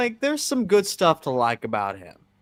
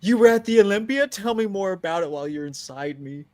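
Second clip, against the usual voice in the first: swooning fan voice; 4 semitones higher than usual. Pretend. Mock fan swooning at Samson.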